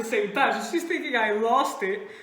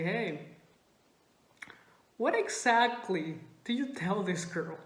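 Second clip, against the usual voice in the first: low-key, stern questioning; serious confrontation; 3 semitones lower, 5 dB quieter than usual. Retold or imitated. Usually silly teller confronting a friend, serious. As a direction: ask it dead serious. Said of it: "the seriousness".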